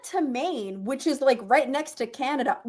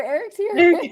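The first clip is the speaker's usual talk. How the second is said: repeating it through a laugh; 5 semitones higher, 4 dB louder than usual. Real, not acted. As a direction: giggle through the words.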